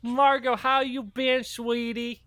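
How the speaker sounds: high, excited mock greeting; squealy over-friendly welcome voice; gushing friend. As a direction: gush way up high, hammed up. Acted gushing greeting to Margot.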